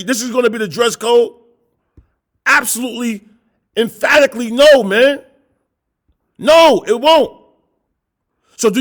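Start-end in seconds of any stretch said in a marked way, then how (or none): 2.5-7.4 emphatic no. Real, not acted. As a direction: slam the door on the idea. Emphatic denial in sermon.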